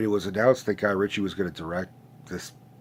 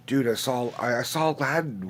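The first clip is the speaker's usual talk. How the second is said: higher-pitched imitation of an eager nephew; 4 semitones higher than usual. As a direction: play a kid sharing big news. Imagines nephews telling him about Aladdin.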